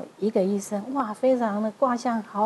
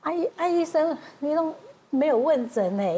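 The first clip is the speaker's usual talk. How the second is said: surprised protest; 6 semitones higher than usual. Retold or imitated. Patient protests to the doctor.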